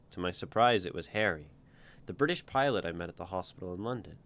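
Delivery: steady read-aloud narration with voiced lines; storyteller voice for a first-person tale; story reading. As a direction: read your story out to the group. Author reads own story aloud.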